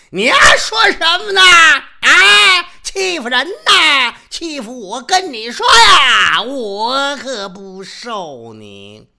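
very high, loud, slow crying yell; wailing shout. Acted. Yuwen Jin wails and shouts that he is being bullied.

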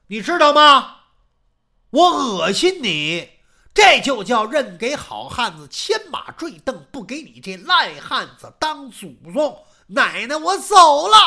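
loud, disgusted scolding; angry outburst. Acted. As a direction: slam the door with your voice. Maid berates her mistress, storms off.

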